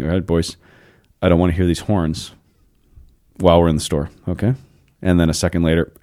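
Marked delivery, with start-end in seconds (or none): 0.0-4.5 mildly patient father voice; calm dad. Retold or imitated. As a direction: retell dad's calm, even warning. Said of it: "my dad very calmly just saying".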